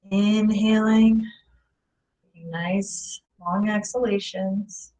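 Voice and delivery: lightly held meditation voice with long pauses; guided meditation. Acted. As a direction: guide listeners calmly through each breath. Leads a guided breathing meditation.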